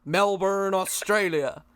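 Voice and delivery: put-on Aussie announcer; Australian accent. Guest introduces himself as if restarting, Australian accent. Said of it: "introduce me as Plastic E P".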